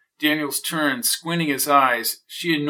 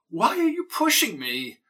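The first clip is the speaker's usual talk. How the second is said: put-on indignant old neighbor; 9 semitones higher than usual. Mrs O'Toole being pushed out.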